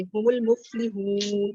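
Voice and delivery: very slow recited المفلحون; tajweed recitation. Shown as a demonstration. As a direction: draw out المفلحون, the last vowel held for four counts. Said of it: "چار حرکت تک کھینچیں گے".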